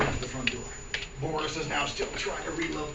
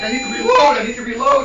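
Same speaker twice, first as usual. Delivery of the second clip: high, loud, urgent cry; mock frantic shout; 8 semitones higher, 12 dB louder than usual. Boris with an empty gun, frantic shout. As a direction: call out in hammed-up panic.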